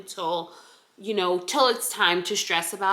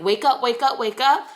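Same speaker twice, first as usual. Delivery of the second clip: playful raised voice for the kicking babies; babies' voice; 4 semitones higher, 6 dB louder than usual. Pretend. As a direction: voice the babies calling wake up.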